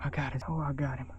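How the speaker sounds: excited. Real, not acted. Repeating kill in excitement.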